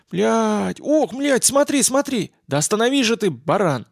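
high, frantic cries of alarm; panicked outburst. Acted. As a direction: yelp in shock at the monster. Woman spots the giant rat.

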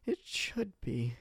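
slow, soft echo of the retort; quiet, slow repeat. Acted. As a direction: let it sink in softly. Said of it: "she snapped".

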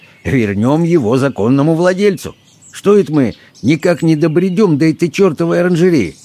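lightly cheerful, picking up pace; cheered up. A narrator's reading. Harris hurrying the party to the greenhouse, mildly amused. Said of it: "развеселившийся Хэррис".

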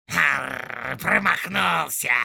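loud, slow snarl; bare your teeth and spit it out; snarling resentful orc. Acted. Little orc snarling at the soldier, loud and slow. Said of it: "обидно ощерился маленький".

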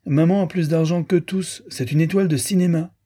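put-on girl boasting about her film-star mother, hissed; piping little girl. A narrator's reading. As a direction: hiss it like a piercing little girl. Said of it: "siffla-t-elle de sa petite voix en vrille".

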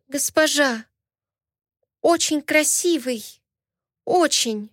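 put-on lightly accented, broken Russian, slow on очень; a hint of a foreign maid's accent. A narrator's reading. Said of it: "Она говорила с акцентом и неправильно". (лёгкий иностранный акцент)

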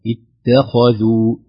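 slow اتخذوا with a thick ت; wrong, heavy ت. Shown as a demonstration. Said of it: "نفخم التاء".

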